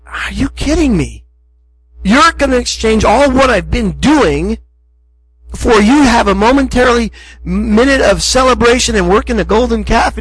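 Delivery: mock incredulous exasperation; frustrated God. God to the people with their golden calf, imitated frustration. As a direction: act out fed-up disbelief, without shouting. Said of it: "Can you understand his frustration".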